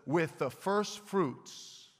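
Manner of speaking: slow emphasis. Shown as a demonstration. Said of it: "with emphasis".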